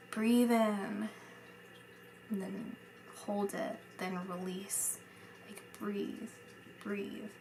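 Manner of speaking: soft, hushed breathing cue; guided breathing. Shown as a demonstration. Medium guides the sitter through breathing, hushed. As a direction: guide a slow breath, quietly. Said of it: "a breathing exercise".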